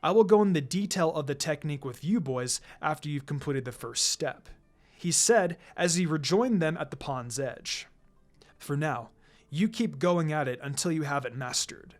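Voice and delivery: a hint of a relaxed sensei; lightly voiced calm teacher.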